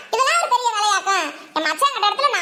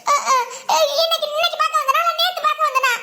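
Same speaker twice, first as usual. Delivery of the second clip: high-pitched indignant arguing; indignant protest; 3 semitones higher than usual. Acted. Daughter insisting she always saw him, indignant protest. Daughter argues back at mother.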